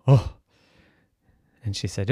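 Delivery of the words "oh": short sharp "oh" of fright; startled gasp. A narrator's reading. Maven jumping at the bear's grunt, startled gasp. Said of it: "And Maven jumped".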